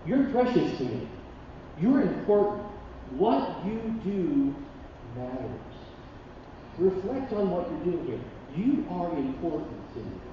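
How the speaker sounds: tender reassurance. Retold or imitated. Mother telling her son he is precious, soft and slow. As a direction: reassure him quietly that he matters. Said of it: "she's saying".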